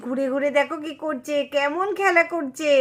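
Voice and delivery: fond cooing. Acted. Mother watching her elder girl play alone, fondly cooing.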